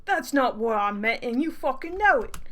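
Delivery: indignant, badly faked British accent; amateur British accent, offended. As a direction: protest in a dodgy British accent. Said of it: "he's gonna have a British accent".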